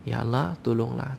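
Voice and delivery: mild imploring prayer; pleading in hardship. Acted. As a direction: plead gently to God in trouble. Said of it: "Tengah susah".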